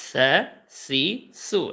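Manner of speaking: সা সি সু very light and soft; soft modeling of সা সি সু; light soft syllables. Shown as a demonstration. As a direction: say সা সি সু gently, no hardness. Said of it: "একেবারে হালকা করে নরম করে".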